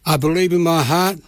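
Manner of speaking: slow, measured prayer with long pauses between phrases; said slowly. Shown as a demonstration. Radio preacher leading listeners in a prayer, slow and measured. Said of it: "And I'll say it slow".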